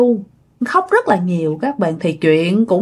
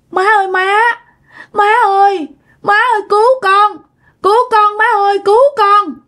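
desperate plea; 11 semitones higher than usual. A narrator's reading. Bloodied daughter begs mother in a dream, desperate. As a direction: beg mother in terror.

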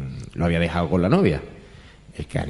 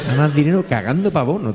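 higher, fast, giggling retelling; laughing repeat; 5 semitones higher, faster than usual. Real, not acted. The speaker savouring Paco Gandía's joke, laughing. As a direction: relish the punchline through laughter. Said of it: "repeating the punchline".

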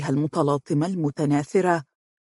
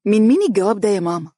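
higher, louder and fast, pressing on مين; eager question; 4 semitones higher, 4 dB louder, faster than usual. Acted. Mahra hurries to her mother about the letter, eager. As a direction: rush over, dying to know. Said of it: "نهضت مهرة وتوجهت إليها".

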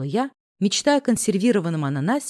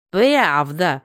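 mocking laugh; 4 semitones lower than usual. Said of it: "заржал Ди Каприо".

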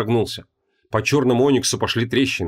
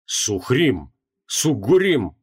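astonished; much slower than usual. Acted. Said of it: "изумлённо произнёс Креол".

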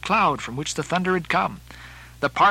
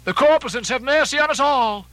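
high, loud plea for mercy; raised voice, pleading to heaven; awed cry; 10 semitones higher, 5 dB louder than usual. Acted. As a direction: cry it out like a frightened prayer. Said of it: "immediately shifting his tone, he cried".

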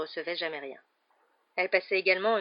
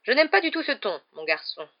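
high, loud reproof; offended, overbearing aunt; stern rebuke; 4 semitones higher, 6 dB louder than usual. A narrator's reading. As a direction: tell the boy off sharply.

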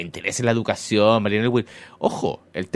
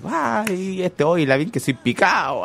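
lightly mocking cheerleader voice; a hint of a gushing cheerleader; 5 semitones higher, slower than usual. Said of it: "así como una porrista".

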